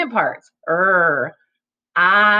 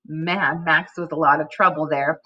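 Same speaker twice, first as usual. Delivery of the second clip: put-on reading to children. Shown as a demonstration. Teacher models fluency reading to students. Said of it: "Watch me practice reading this".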